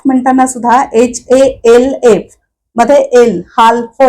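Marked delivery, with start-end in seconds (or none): 3.6-4.0 हाल्फ with the L sounded; wrong pronunciation. Shown as a demonstration. A teacher demonstrating the wrong L-voiced हाल्फ. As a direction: say हाल्फ with a clear L. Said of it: "असं ल चा उच्चार होतच नाही".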